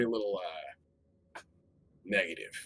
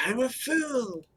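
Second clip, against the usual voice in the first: laughing; much slower than usual. Real, not acted. Mock self-deprecation after being called fool.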